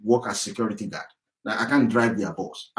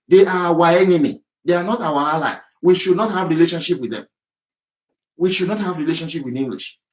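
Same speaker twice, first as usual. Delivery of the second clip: each line hit hard and raised; hammering it home; 4 semitones higher, 3 dB louder than usual. Real, not acted. Ranting vlogger hammering home that they are the enemy. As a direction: pound every sentence home. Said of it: "And I'm hammering on this, I'm emphasizing it".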